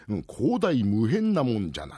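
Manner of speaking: put-on slow, lofty old sage; lightly voiced bearded elder; creaky wise old man. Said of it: "白いひげなんざ長く生やしましてね".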